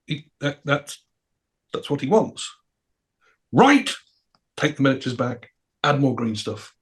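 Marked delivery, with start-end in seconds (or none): 0.1-2.5 soft, halting admission; quiet, helpless mock excuse; meek explanation. Rick meekly explains to sculptors. 3.5-3.9 high, huffy one-word reply; squeaky acted huff; grudging acceptance. Sculptors' indignant acceptance.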